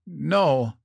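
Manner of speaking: pained, understated groan. A narrator's reading. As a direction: refuse through the pain. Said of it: "she groaned".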